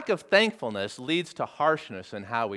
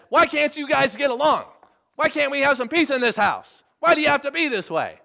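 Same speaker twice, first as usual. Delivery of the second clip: acted exasperated yell, high and loud; upset dad; 10 semitones higher, 5 dB louder than usual. Dad home from a hard day to a bickering family, upset yelling. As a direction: plead angrily with squabbling kids. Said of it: "and he's upset".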